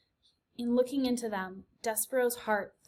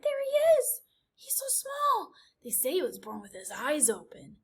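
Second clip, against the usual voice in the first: squeaky, much higher tiny mouse voice; gossiping mouse; 6 semitones higher than usual. A narrator's reading. Gossiping mice in the crowd.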